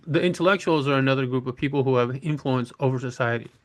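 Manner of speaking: ordinary talk, nothing marked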